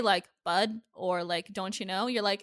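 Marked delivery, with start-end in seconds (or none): 0.4-0.8 Minnesota accent. Shown as a demonstration. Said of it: "you're from Minnesota". 1.5-2.1 Minnesota accent. Shown as a demonstration. Showing Midwest roots to co-host, Minnesota accent. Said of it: "you're from Minnesota".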